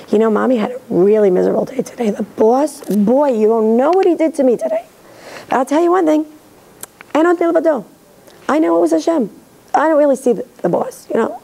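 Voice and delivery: a mother telling her child about her bad day at work; chatty mom sharing. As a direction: tell your kid about your day with faith.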